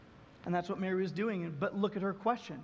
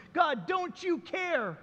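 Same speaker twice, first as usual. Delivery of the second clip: slow pleading; 3 semitones higher, much slower than usual. Retold or imitated. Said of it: "their question".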